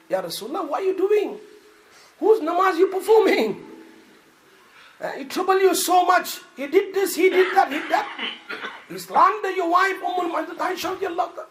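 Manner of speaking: high, loud pleading objection; urgent protest. Acted. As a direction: press the Prophet hard not to pray. Umar pleading with the Prophet.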